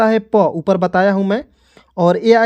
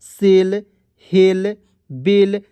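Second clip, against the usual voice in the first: slow reading; much slower than usual. Shown as a demonstration. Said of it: "देखिएगा".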